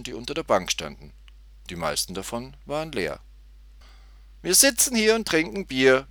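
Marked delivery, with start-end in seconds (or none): 4.4-6.1 high, louder mock-amused echo; a touch of laughter in a girl's high voice; amused repeat. A narrator's reading. Tutti repeats the man's rhyme back, mildly amused. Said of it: "wiederholte Tutti lachend".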